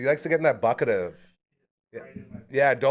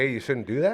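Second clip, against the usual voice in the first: ordinary talk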